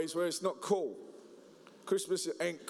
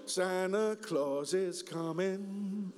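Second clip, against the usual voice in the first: slow crooner, Santa Claus stretched out; crooner voice; much slower than usual. Retold or imitated. Mimicking the crooner singing the Christmas song, slow. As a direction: croon it lazily like a lounge singer. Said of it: "in my Michael Bublé voice".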